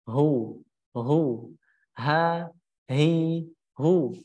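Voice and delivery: "hu" and "ha, hi, hu" with the sound let out freely; flowing sound. Shown as a demonstration. Teacher repeats the letter, free-flowing drill. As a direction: release the voice on each "hu". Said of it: "suara mengalir keluar".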